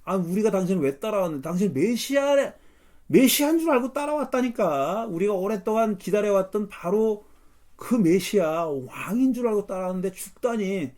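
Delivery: hammed-up indignant complaint; acted exasperation. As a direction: argue back as the fed-up disciple. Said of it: "꼭지가 도는 겁니다".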